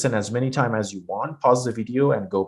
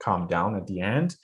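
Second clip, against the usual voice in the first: voice going down; 4 semitones lower, 5 dB quieter than usual. Shown as a demonstration. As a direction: lower and softer at the end. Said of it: "The voice goes down".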